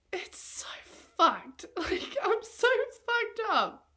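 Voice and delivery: a broken laugh as it spills out; teary laugh. Real, not acted. To the camera about the breakup, a teary laugh.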